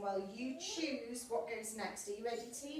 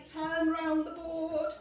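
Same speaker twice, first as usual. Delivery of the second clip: slow spoken cue; 4 semitones higher, 9 dB louder, slower than usual. Shown as a demonstration.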